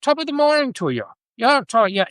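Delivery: high-pitched mock English accent; Queen's English accent. Early settler greeting people like the Queen, mock English accent. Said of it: "the Queen of England".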